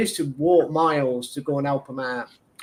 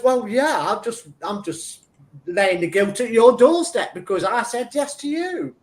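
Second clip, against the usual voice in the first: half-laughing, raised voice, owning the guilt trip; laughing retort; 6 semitones higher than usual. Retold or imitated. To the friend he helped, laughing as he blames her. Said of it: "I says".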